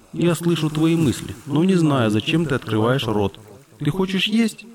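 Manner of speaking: lightly voiced puzzled dolphin; a hint of a curious dolphin cub; young dolphin voice. Dolphin's voice held.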